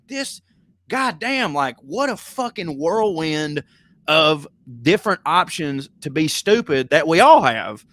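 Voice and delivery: exasperated rant at the whole mess. Retold or imitated. Retelling his own exasperated thoughts.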